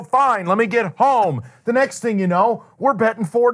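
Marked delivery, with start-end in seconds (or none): 0.0-1.4 slow resigned sigh. Retold or imitated. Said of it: "I go".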